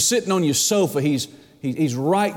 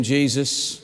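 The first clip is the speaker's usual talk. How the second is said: laughing; 3 semitones lower than usual. Real, not acted. Punchline of joke, laughing.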